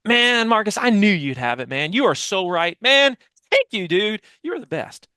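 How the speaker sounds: high, loud, gushing praise; over-the-top thankful employee, hammed up; gushing grateful thanks. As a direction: team member gushing to manager, high and loud. Acted grateful team member thanking manager.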